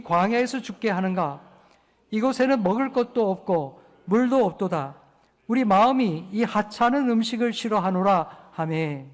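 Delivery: loud, declaiming verse reading; loud solemn Bible reading; reading scripture aloud. Acted. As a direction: read the passage out strongly together. Congregation reads verse aloud.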